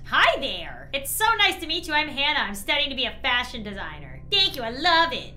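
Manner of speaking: lightly voiced Hannah. Reading the character Hannah's dialogue.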